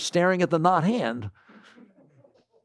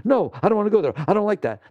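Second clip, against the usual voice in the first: mock refusing mind; 4 semitones higher, 4 dB louder, faster than usual. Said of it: "your mind said".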